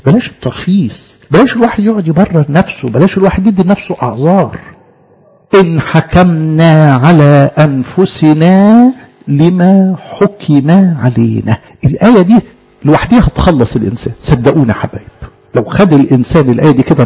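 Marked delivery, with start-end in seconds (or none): 5.6-11.6 slow, measured verse reading; solemn slow scripture recital; scripture recitation. Acted. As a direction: intone the verse slowly like a reading.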